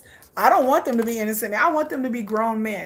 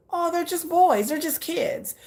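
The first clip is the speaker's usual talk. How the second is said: retold fond cooing; 6 semitones higher, slower than usual. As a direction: coo over them like little kids. Voices her earlier motherly view.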